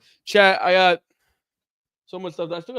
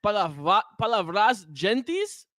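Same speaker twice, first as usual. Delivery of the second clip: Spanish accent; 3 semitones lower than usual. Shown as a demonstration. Non-speaker reading a Portuguese chat message, Spanish accent. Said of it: "like a Spanish accent".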